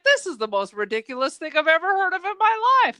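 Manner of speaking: quick, incredulous complaint; retold frustration. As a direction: rattle it off in mild disbelief. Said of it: "I started getting frustrated".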